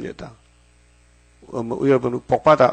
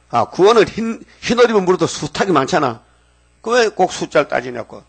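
heated retort; 5 semitones higher than usual. Retold or imitated. Heated retold argument with caller.

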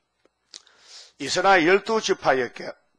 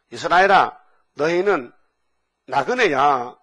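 calling out to Israel; 6 dB louder than usual. Retold or imitated.

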